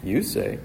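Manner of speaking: "You" emphasized, said softly; soft "You say", weighted on "You"; stress on YOU. Shown as a demonstration. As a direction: quietly lean on "You", dropping "say". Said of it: "the emphasis is on you".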